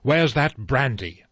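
a sharp, slowed demand. Acted. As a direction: cut in sharply with authority. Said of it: "Doctor Armstrong said sharply".

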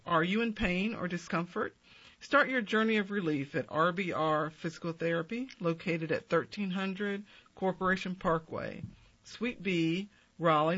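ad read. Acted. Sponsor ad read.

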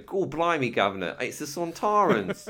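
a hammed-up Cockney Sontaran in a Cockney accent; mock Cockney. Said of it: "his Cockney accent is like".

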